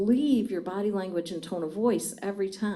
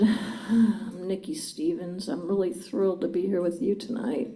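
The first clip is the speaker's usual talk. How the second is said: unenthusiastic; 3 semitones lower than usual. Shown as a demonstration. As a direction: say you're thrilled but sound bored. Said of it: "would you have believed me?".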